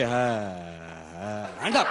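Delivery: low, gruff policeman's command; mock police order. Police breaking up the fight, gruffly ordering hands up. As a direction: bark it like a constable. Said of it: "police कह रही".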